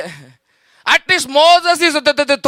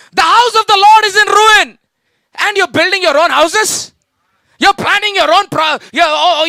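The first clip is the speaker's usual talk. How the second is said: outraged prophet; 4 semitones higher than usual. Acted. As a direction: thunder at them like a prophet scolding. Haggai rebukes the church.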